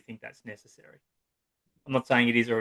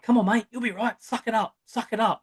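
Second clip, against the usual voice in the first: hearty, much higher blokey dad voice; tough-love dad; 10 semitones higher than usual. Retold or imitated. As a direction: brush off the fallen boy like a no-nonsense Aussie dad. Parent brushing off the fallen boy.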